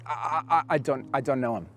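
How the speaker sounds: stumbling, halting denial; a mild mock of fear, tripping over I; frightened stammer. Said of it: "he is crippled by fear and anxiety".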